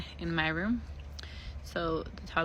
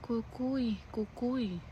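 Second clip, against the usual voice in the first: put-on soft, high, eerie child calling cucuy; a faint eerie "cucuy" in the dark; sleepy child's eerie voice; 4 semitones higher, 7 dB quieter, much slower than usual. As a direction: mimic a half-asleep toddler murmuring cucuy. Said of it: "then she's like".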